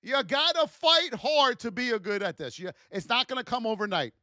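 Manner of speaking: ordinary talk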